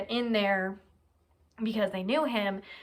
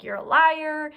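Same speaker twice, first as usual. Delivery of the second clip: higher, louder accusing shout; angry shout; 7 semitones higher, 8 dB louder, slower than usual. Retold or imitated. Courtroom crowd shouting at the defendant, angry shout. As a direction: hurl the accusation at him. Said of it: "other people started joining in".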